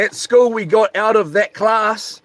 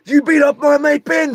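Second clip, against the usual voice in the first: retold yell; 8 semitones higher than usual. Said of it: "standing out yelling at me".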